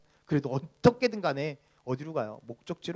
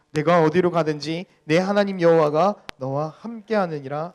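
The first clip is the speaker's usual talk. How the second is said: loud, slow, measured recitation; scripture reading; 2 semitones higher, 8 dB louder, slower than usual. Real, not acted. Pastor reading Joshua aloud with the congregation, measured scripture reading. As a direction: proclaim the verse in steady phrases.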